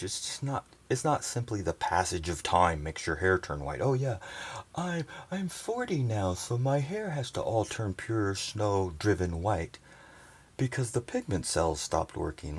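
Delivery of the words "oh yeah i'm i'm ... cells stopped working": high, naive mocking voice; mock believer. Mocking what people believe about aging, high naive voice. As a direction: parody someone accepting the aging story.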